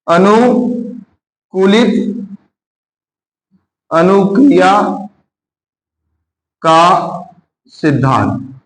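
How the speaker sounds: very slow, a long pause after each word; word-by-word dictation. Real, not acted. Teacher giving the class a theory name, slowly dictated. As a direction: spell out the term for note-takers, dropping on the last word.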